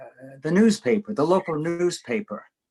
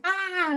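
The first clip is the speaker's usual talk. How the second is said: high imitated shriek of onlookers; mock crowd shriek. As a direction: squeal it like a startled crowd. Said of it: "people going".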